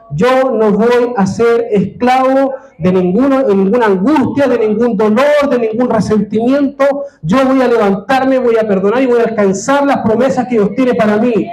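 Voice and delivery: high, rising, defiant vow; bold declaration. Pretend. The Joseph generation vows to rise, high and defiant. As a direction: proclaim it like a freed slave. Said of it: "para decir".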